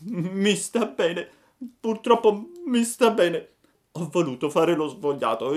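high, loud tearful self-reproach; chained puppet lamenting in tears; crying lament. A narrator's reading. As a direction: weep out the regret. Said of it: "diceva piangendo".

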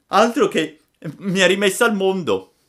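high, loud cheerful reply; exuberant puppet. A narrator's reading. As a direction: answer like a revived, delighted child. Cured puppet answers the fairy happily. (burattino esultante, voce acuta e forte)

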